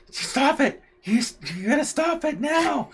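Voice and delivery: mother scolding her daughter in a shop; scolding mom. Retold or imitated. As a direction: hush a child firmly.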